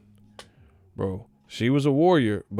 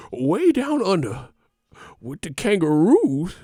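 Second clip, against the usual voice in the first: louder, slower, higher drawn-out call; hammed-up exclaim; 8 semitones higher, 6 dB louder than usual. Storyteller repeating the Australia line, hammed-up loud drawl. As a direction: belt it out like a showman.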